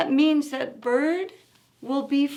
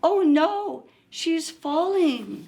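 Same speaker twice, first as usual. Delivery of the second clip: alarmed cry; 4 semitones higher, 4 dB louder, slower than usual. Acted. Character cries out in story.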